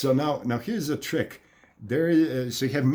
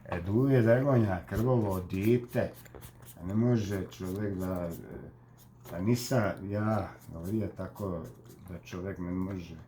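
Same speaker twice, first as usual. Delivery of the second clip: Dalmatian accent. Shown as a demonstration. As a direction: speak like a Dalmatian, stretching the names and word ends.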